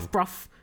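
outsider's wrong reading, "Loughbrough" with f sounds; mispronounced place name. Shown as a demonstration. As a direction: say "Loughbrough" as LUFF-bruff, both halves rhyming. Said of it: "started calling it".

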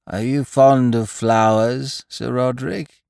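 strained croaky voice, slowly; croaking. Acted. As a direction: croak it out nervously. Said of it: "he croaked".

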